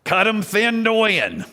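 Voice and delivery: put-on high, loud, sing-song old woman; Granny's advice. Grandma dealing poker to young Rick, high and loud. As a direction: call out the card trick like Granny. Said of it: "and she would say".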